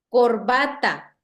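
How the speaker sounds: corbata slowly drawn out as cor-BA-ta; demonstrated stressed syllable. Shown as a demonstration. Teacher pronounces to locate the tonic syllable, corbata as cor-BA-ta. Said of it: "es pronunciando la palabra".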